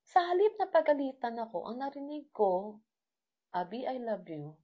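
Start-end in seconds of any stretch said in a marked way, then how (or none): 3.5-4.6 softer, tender voicing of God's loving words; very sweet. God speaking lovingly to a crying daughter, soft and sweet. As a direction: say it gently, like a father comforting a child. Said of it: "in a very sweet".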